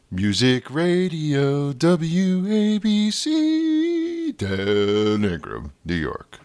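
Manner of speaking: put-on slow, booming old-school AM radio jock; radio DJ impression. Podcaster doing his old radio jingle, booming DJ voice. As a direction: stretch it out like a sixties New York DJ. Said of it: "Had to do that".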